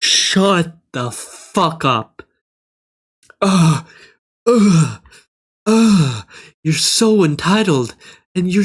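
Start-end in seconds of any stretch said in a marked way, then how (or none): 0.0-2.2 drawn out, very slow brush-off; slow dismissive retort. Retold or imitated. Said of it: "I'm like". 3.4-6.3 loud disgusted groans; exasperated groan. Real, not acted.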